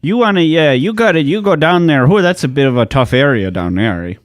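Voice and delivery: lively, exaggerated Canadian accent; a folksy Canadian warning a visitor; mock Canadian local. Riffing host plays a Canadian warning about the east side, mock Canadian.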